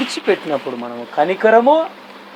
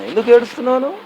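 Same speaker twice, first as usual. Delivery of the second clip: God asking, raised; 6 semitones higher, much faster than usual. Acted.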